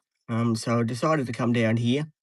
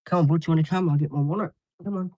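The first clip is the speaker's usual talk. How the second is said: calling dog; 5 semitones higher, faster than usual. Real, not acted. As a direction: call Butch over, bright and up.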